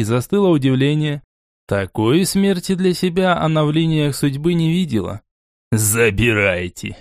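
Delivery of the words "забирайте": slow, low and unbothered; calm. Acted. Borey handing over the corpse, calm and slow. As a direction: say it coolly, no hurry. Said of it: "спокойно произнёс Борей".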